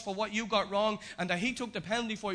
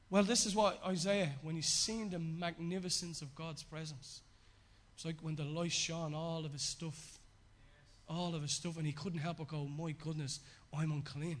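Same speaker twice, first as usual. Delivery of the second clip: quieter, lowered sermon voice; hushed preaching; 5 semitones lower, 7 dB quieter than usual. Acted. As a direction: bring the sermon down to a soft, low reflection. Preacher softens into reflection.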